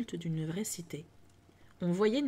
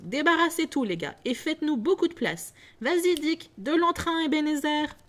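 higher and louder, cheerful commands; hearty orders; 7 semitones higher, 4 dB louder than usual. Acted. Fezziwig urging Dick and Ebenezer, loud and cheerful. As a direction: rouse the lads to clear the room. Fezziwig directing lads for party.

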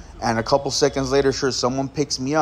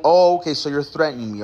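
sudden realization; 3 semitones higher, faster than usual. Retold or imitated. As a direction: catch on to the threat with mock surprise. Realizes he's being threatened.

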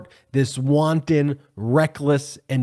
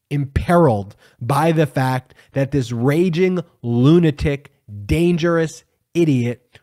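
infuriated rant. Real, not acted. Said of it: "I am just so infuriated right now".

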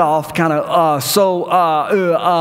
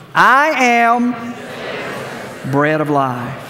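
congregation reading; 2 semitones higher, much slower than usual. Shown as a demonstration. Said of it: "Let's try it again".

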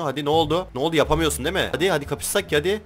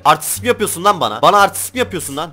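indignant, higher challenge; annoyed; 3 semitones higher, 4 dB louder than usual. Real, not acted. Player confronting a rival trader who showed off, annoyed. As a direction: confront them, raised and irritated. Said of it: "çok sinirlendim gerçekten".

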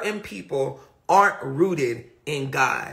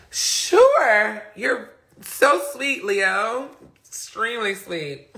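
sarcastic; 3 semitones higher, slower than usual. Real, not acted. Teasing the Leo after laughing.

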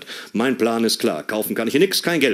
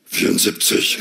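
son's deadpan; 4 semitones lower than usual. Retold or imitated. Son's deadpan odd answer.

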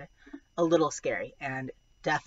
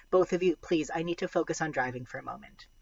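tense tired mom; faster than usual. Acted. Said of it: "voice tense, tired".

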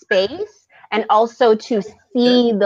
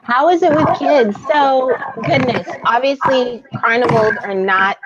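echoing; 4 semitones higher than usual. Real, not acted. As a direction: echo on the mic. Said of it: "I'm echoing".

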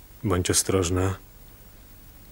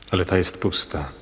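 whisper. Acted. Hiding in the cave.

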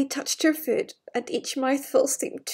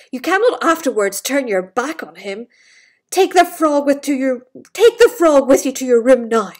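stern king; 6 dB louder than usual. Acted. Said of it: "he spoke sternly".

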